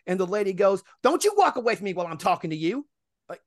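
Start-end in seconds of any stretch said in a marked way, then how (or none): 1.0-2.9 higher, mock-stern reprimand; retold angry scolding. Resident scolds driver walking away, imitated indignation. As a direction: imitate her calling him back. Woman scolds him as he leaves.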